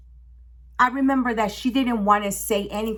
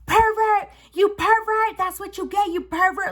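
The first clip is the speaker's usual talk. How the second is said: taunting; 10 semitones higher than usual. Retold or imitated. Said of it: "I would be like".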